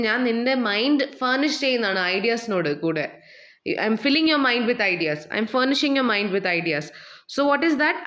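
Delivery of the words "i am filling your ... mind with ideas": slow example sentence. Shown as a demonstration.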